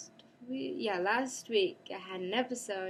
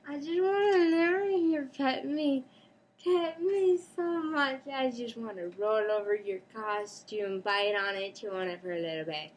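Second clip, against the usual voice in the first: higher, louder playful cat voice; voicing the cat; 4 semitones higher, 3 dB louder than usual. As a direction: speak as the needy cat. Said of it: "because he's like".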